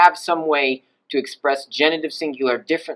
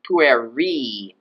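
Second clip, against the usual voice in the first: "pueri" held long on the final syllable; stressed last syllable; 2 semitones lower than usual. Shown as a demonstration. Teacher defending the accent, final syllable of "pueri" drawn out. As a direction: stretch and stress the end of "pueri". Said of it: "I'm gonna stress accent that".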